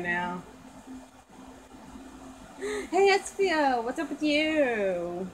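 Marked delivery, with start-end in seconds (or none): 2.6-5.3 high call on hey, then slow and drawn out; calling to a friend. Acted. Girl doll calling out to Espio, high then slow. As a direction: call over to Espio, then stretch the question.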